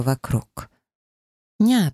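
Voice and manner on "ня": put-on high, bright little-child cry offering a toy; toddler exclaiming. A narrator's reading. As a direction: squeal it like a small child. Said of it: "повторила Диана". (детский возглас «Ня!», высоко)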